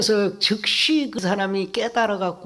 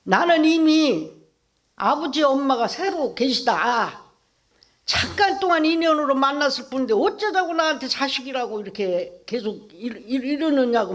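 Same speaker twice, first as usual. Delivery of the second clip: put-on angry child; 3 semitones higher than usual. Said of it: "아이가 막 화를 내더라는 겨".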